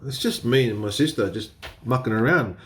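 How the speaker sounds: ordinary talk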